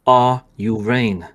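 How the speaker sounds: slow, menacing demand; slow threatening. Acted. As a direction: press the question slowly.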